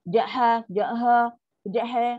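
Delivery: jaha said with a changing vowel sound; vary the ha of jaha wrongly; wrong shifting ha. Shown as a demonstration. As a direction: unstable jaha.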